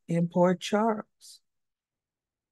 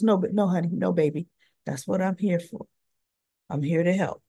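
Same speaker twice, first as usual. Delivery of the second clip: soothing mother; 4 semitones lower, 4 dB quieter than usual. Retold or imitated. Mother comforting her son, retold.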